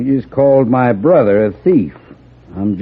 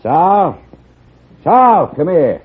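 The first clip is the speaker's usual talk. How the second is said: calling out; 9 semitones higher, slower than usual. Acted. Sheriff calls brother across room.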